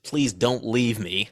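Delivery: slow, understated plea; mild begging. Acted. Podcaster voicing stabbed Beth begging her friend to stay, subdued. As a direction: plead gently, drawing it out.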